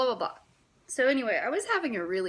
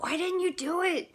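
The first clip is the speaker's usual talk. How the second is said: high, lightly voiced daughter; daughter asking; 11 semitones higher, 5 dB louder than usual. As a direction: ask it up high like a curious kid. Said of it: "my daughter's like".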